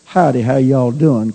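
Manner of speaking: casual country hello, lightly voiced; tossed-off friendly greeting to a neighbor; folksy howdy greeting. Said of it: "kind of thing".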